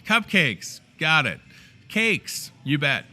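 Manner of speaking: high-pitched, punchy bargain listing; over-the-top delighted sales pitch; hammed-up excitement. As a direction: rattle off treats with gleeful conviction. Excitedly answers himself, lists bargains.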